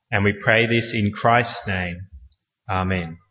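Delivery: prayer. Acted. Pastor opening the service in prayer to God, reverent.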